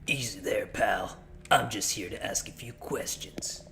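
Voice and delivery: gruff cop. Pretend. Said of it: "the gruff cop voice".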